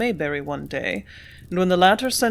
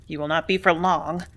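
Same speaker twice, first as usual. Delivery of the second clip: growled; 2 semitones lower than usual. Acted. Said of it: "growled Mayberry".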